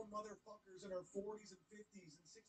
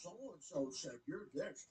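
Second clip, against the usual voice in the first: mocking tattler; much slower than usual.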